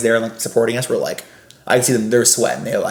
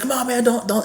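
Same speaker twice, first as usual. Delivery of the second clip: Gary; 11 semitones higher, 5 dB quieter than usual. Retold or imitated. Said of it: "fake teeth in".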